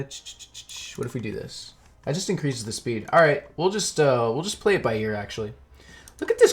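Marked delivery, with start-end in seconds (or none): 0.0-1.7 whispering. Real, not acted. Unvoiced muttering while fiddling.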